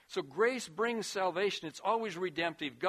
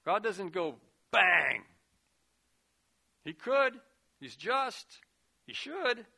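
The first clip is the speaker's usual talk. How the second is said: louder, higher, punching each line; emphatic preaching; 3 semitones higher, 6 dB louder than usual. Real, not acted. Preacher telling congregation about judgment, loud and emphatic. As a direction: proclaim it with force.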